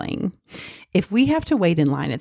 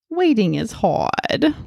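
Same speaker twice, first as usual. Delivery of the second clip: lightly voiced little kid; a hint of a small child; cute little kid voice; 3 semitones higher than usual. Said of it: "in his cute little kid voice".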